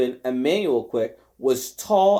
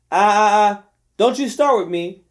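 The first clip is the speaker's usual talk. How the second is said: cutting him off; 4 semitones higher, 5 dB louder than usual. Acted. Della cuts him off.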